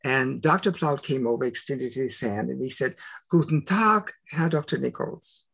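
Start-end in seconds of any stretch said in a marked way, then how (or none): 3.3-5.4 German greeting. Retold or imitated. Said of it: "he's speaking to me in German".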